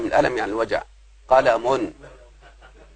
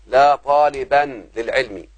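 slow example; much slower than usual. Shown as a demonstration. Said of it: "مثلًا".

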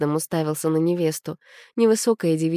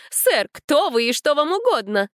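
much higher indignant lady's voice; 10 semitones higher than usual. A narrator's reading. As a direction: demand an answer, outraged. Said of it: "возмущённо раздувала она ноздри". (возмущённо, высоким женским голосом)

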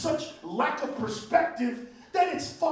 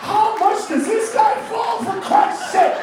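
loud, high, slow outcry; exasperated shout; 9 semitones higher, 6 dB louder, slower than usual. Real, not acted. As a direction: drag it out in disbelief. Exasperated rant.

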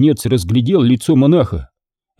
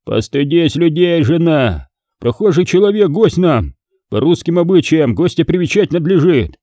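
mild bass rebuke; 6 semitones higher than usual. Acted. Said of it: "как он басил".

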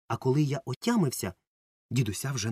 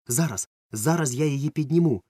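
put-on a boy calling up, a bit louder, rushing to help; eager shout; 4 semitones higher, 5 dB louder than usual. Boy calling up to his stuck friend, eager and louder. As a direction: call out reassuringly while hauling the ladder. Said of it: "вигукнув я".

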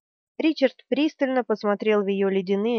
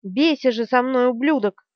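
mild mock fury; 3 semitones higher, 4 dB louder than usual. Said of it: "визжа от бешенства".

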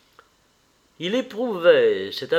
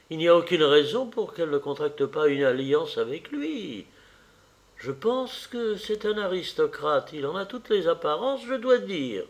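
a lightly voiced fussy mother, higher; the mother lecturing her son, a touch higher; mother's voice; 3 semitones higher than usual. The mother's reply. (la mère qui sermonne son fils, voix un peu plus aiguë)

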